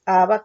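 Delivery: "Abba" stressed on the final A; stress on the second A. Shown as a demonstration. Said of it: "acento en la segunda A".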